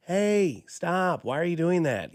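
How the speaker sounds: half-hearted dad voice calling out. Retold or imitated. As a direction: scold the kids like a fed-up father. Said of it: "is the dad voice".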